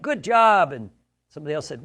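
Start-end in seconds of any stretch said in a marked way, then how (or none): 0.0-0.7 high, loud cheer; mock cheer. Gym guy cheering a lifter's heavy bench press. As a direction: hype up the lifter. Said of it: "the guy went".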